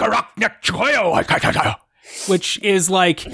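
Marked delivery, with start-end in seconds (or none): 0.0-1.8 slow gruff made-up Orcish; Orcish speech. Acted. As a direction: speak slow mock Orcish. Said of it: "Please say that in Orcish".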